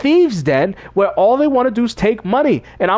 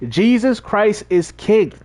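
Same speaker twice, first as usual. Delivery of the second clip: "Jesus Christ is king" said slowly, each word weighted; slow, emphatic "Jesus Christ is king"; emphatic declaration; slower than usual. Shown as a demonstration. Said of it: "you have to say it with emphasis".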